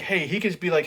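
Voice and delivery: ordinary delivery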